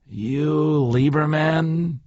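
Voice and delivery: put-on slow, even question in an American accent, only a faint German trace; an American accent with the German pushed down. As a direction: say Lieberman again in an American accent, hiding the German. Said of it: "more American, less German".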